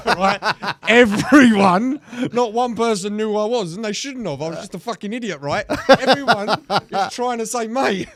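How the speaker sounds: can barely get the words out for laughing; laughing hard. Real, not acted. Cracking up at his own story.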